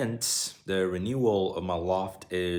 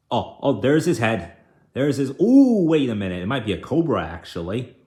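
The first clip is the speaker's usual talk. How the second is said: excited; 2 semitones higher, 6 dB louder, faster than usual. Real, not acted. Excited reaction to snake found.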